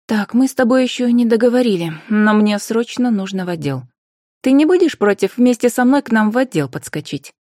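a hint of a businesslike investigator; woman investigator, asking. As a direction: make a pressing request in a lifted voice. Narrator voices the investigator asking.

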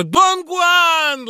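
very high, loud delighted cry; Laura greets Don Guan with a joyful cry. Acted. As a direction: shriek his name with joy. Laura sees her lover.

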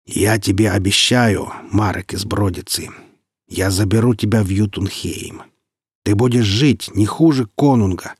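solemn, measured vow. A narrator's reading. Wulfer promises his rescuer a home in Jotunheim, solemnly. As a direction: pronounce it as a weighty oath. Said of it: "и торжественно произнёс".

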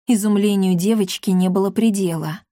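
ordinary delivery

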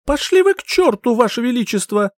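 put-on high, loud defiant girl; defiant curse. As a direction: throw the curse at the king. Heroine repeats the curse.

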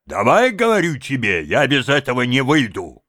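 angry shouting. A narrator's reading. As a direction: lay into him, bullying and loud. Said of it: "кричите так".

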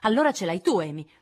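incalzante e più forte; la mette alle strette; accusa. Acted. Litigio tra sorelle. (Jo accusa Amy del libro, incalzante)

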